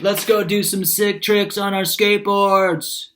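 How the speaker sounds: high, loud, slow yell; sustained loud call. A narrator's reading. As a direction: holler every word, stretched out. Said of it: "He yelled".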